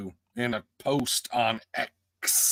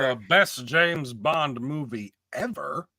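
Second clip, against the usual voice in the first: skeptical echo; 3 semitones higher, slower than usual. Real, not acted. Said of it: "I'll make that bold claim".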